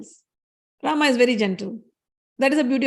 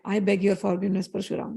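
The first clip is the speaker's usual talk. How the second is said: softer, humble plea; 3 semitones lower, 3 dB quieter than usual. Acted. Rama begs the angry sage's pardon, softly humble. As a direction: ask pardon gently, fading away. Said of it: "Rama speaks with all humility".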